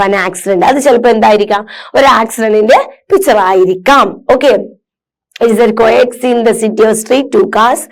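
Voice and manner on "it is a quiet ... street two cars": slow, careful read-aloud for students; measured classroom reading. Acted. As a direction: read each word out slowly and clearly. Reads accident description.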